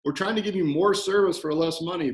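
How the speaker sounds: exasperated comeback, retold; indignant protest. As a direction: protest as if wrongly accused. Acted indignant reply to accusing client.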